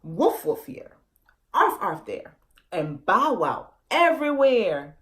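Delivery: lightly voiced animal barks; a family barking to search. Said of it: "Chickwat family barking".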